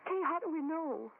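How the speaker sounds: high, crying plea; tearful fear. Acted. Scared woman begs Kay to take the evil seriously, crying. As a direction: let the fear break through into tears.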